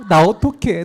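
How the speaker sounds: loud hammed-up plea; put-on distress. Student phoning dad with the same act, mock distress. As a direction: play up the helplessness for effect. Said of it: "또 연기를 하는 거죠".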